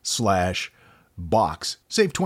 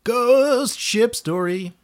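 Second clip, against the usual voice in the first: higher, drawn-out spooky delight; spooky relish; 14 semitones higher, 4 dB louder, slower than usual. Pretend. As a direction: savor it like a campfire tale. Spooky relish of ghost story.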